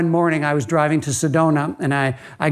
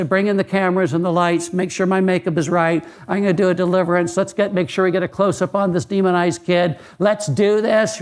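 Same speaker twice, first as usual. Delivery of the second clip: lightly voiced showy TV preacher, a bit raised; mock showy evangelist; 3 semitones higher than usual. Preacher mocking showbiz evangelists, lightly voiced showy preacher. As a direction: ham up a vain evangelist, only hinting. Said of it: "evangelists say".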